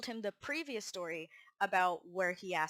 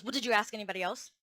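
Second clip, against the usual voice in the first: quick mock interrogation; abrupt challenge; 3 dB louder, faster than usual. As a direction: imitate a boss firing off a curt question. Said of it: "Just like that".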